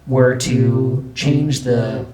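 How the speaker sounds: slow, pitch-locked auto-tune voice; auto-tuned speech. Shown as a demonstration. Demoing vocal tune to viewers, auto-tuned voice. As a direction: speak slowly into the auto-tune. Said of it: "change the pitch of my voice".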